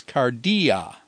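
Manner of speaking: cardia with i and a as separate syllables; split vowels. Shown as a demonstration. Teacher showing students the vowel split, cardia in slow separate syllables. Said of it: "you split the alpha off".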